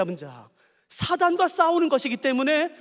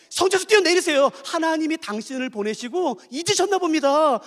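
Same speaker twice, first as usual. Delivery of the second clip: mocking Satan; 5 semitones higher than usual. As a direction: taunt him like a jeering tempter. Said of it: "제가 그 뉘앙스, 분위기를 설명할 테니까 보세요". (예수님을 조롱하는 사탄의 비웃는 목소리)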